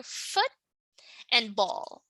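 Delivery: "foot" and "ball" as separate beats; split into syllables. Shown as a demonstration. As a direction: pause after "foot", then say "ball". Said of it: "we have two syllables here".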